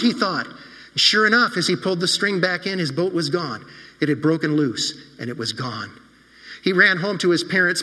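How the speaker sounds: put-on gently paced storytelling for children; story narration. A narrator's reading. Pastor telling the children a story, warm storytelling. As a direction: read it like a bedtime story to kids.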